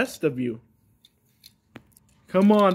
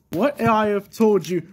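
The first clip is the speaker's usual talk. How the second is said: exasperated cry; 2 semitones higher than usual. Acted. Dad cries out in frustration.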